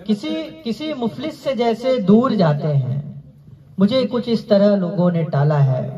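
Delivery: lifted, lilting mushaira verse; poetry recitation. Acted. Recites couplet again.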